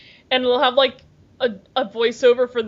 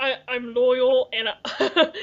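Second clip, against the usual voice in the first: slow mock-Cockney dog voice; drawn-out Cockney, imitating the bulldog; Cockney accent; much slower than usual. Bulldog describing itself to viewers, Cockney accent. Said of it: "it had a Cockney accent".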